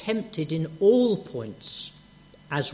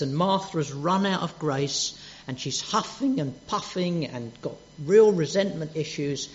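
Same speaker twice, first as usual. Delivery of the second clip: normal talking voice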